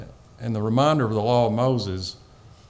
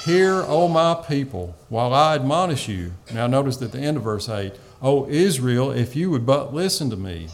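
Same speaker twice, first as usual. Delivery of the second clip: solemn scripture proclamation; 3 dB louder than usual. Acted. Reading God's words aloud.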